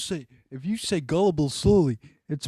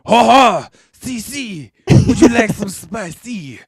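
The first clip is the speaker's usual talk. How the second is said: put-on hammy French pizza guy accent; badly faked French accent, slow; 3 semitones higher, 4 dB louder, slower than usual. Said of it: "You're so bad at this".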